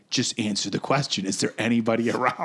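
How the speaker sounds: imitating a no-nonsense stepdad; stern stepdad. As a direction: press for an answer, mildly stern. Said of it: "Being very stern with you".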